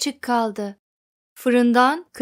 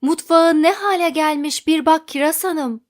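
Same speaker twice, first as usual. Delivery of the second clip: loud, higher, upset call; husband urges his wife to look; trembling voice; 5 semitones higher, 6 dB louder than usual. Acted. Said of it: "Kiraz Bey'in titreyen sesi".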